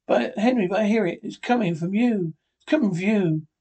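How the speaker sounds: realizing the truth in terror; horrified. Acted. Wife realizing the ticking comes from her husband, horrified.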